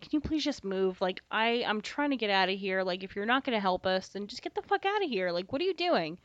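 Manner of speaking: retold testy impatience, mildly rude; being a dick. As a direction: hurry through an irritated brush-off. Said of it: "I'm being kind of a dick".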